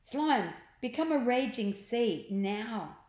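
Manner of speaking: storybook urgency, easing at the end; urgent command. Acted. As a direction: order your friend into action. Boy orders Slime urgently.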